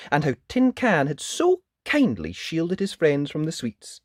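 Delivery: varied, expressive bedtime-story read; children's storytelling. A narrator's reading. Narrator introducing the wizard to children, expressive storytelling. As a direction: linger on key words for young listeners.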